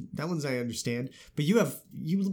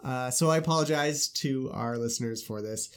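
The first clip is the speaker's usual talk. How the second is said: stuffy congested voice; talking through clogged sinuses; blocked nose. Real, not acted. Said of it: "so I can't talk very well".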